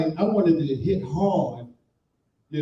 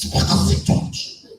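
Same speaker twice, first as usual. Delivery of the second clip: slow whispery German attempt; hammed-up German try, breathier; mock German again; slower than usual. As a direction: fake German accent, airy. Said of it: "I gave him the best".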